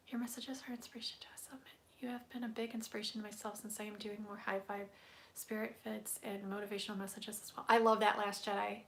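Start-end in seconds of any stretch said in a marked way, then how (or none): 0.1-7.7 fast, soft whisper of a chat comment; reading a viewer's message half under breath. Real, not acted. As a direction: murmur the comment aloud quickly to yourself.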